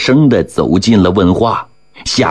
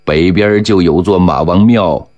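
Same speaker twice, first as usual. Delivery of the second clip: reassuring man. Acted. Man reassuring frightened girl.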